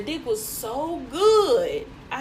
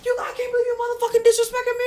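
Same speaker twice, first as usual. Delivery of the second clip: high, rapid-fire mock rant; imitated angry outburst; 12 semitones higher, 4 dB louder, much faster than usual. Boyfriend going off once car doors close, high fast imitated rant. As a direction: rush his tirade out in a high voice.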